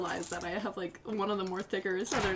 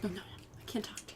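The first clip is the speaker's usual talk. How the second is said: mock snooty European; 3 semitones lower, 13 dB quieter, faster than usual. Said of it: "they're like".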